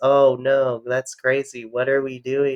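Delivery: deadpan, flat, even monotone. Imitating the even-keeled person in the group delivering lines: flat, even-keeled delivery. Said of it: "it's very even keeled. I'm gonna deliver all my lines like this".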